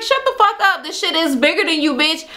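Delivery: high-pitched mock angry comeback; irritated retort. He cuts her off mid-accusation, mock irritated retort. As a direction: retell a sharp put-down, pitch jumping up.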